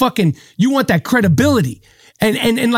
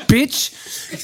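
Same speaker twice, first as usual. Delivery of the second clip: breathy whisper of "Bitch."; whispered thought; 5 dB quieter than usual. Shown as a demonstration. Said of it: "in my head, I'm thinking".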